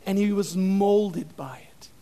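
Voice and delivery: hushed whisper, slow. Shown as a demonstration. Preacher whispering Bane's line for effect, hushed. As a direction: lean in and breathe it slow. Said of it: "whispered retelling".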